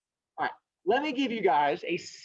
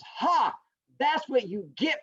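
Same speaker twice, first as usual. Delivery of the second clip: high, triumphant taunt; gloating turtle; 6 semitones higher, slower than usual. Acted. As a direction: crow over the beaten rival.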